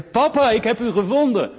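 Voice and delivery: put-on high, loud happy child's cry; be a delighted little girl; excited little girl. Daughter finding her father, excited high child voice.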